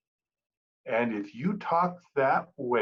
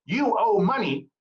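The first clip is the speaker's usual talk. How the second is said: louder, higher stress on You; pointed accusation; 6 semitones higher, 4 dB louder than usual. Shown as a demonstration. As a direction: accuse the caller directly. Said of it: "Keep in mind".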